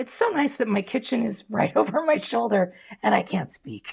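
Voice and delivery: croaky, cracking voice, frog in the throat. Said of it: "Not sure what happened to my voice there".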